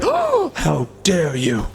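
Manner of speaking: lampoon a scandalized critic in a squeaky caricature voice; mock shrieking pearl-clutcher. Mocking offended progressives, squeaky voice.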